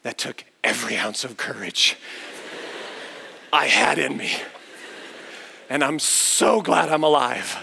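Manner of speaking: lightly acted, heartfelt relief; emotional echo. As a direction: say it as if overcome while hugging. Father holding daughter, echoing her.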